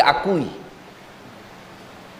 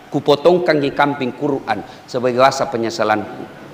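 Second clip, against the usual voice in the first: remorseful letter; 6 semitones lower than usual. Retold or imitated. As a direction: read it like a penitent begging forgiveness. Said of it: "maka bikin kau surat".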